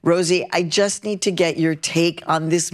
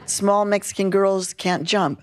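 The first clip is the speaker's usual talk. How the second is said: laughing; 7 semitones higher than usual. Real, not acted. Self-mocking joke, laughs.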